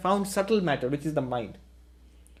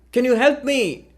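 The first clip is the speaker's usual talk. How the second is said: raised, higher calling-down voice; 6 semitones higher, 3 dB louder than usual. Retold or imitated. Lost balloonist shouting down to a stranger, raised and high. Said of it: "he shouts down at the man".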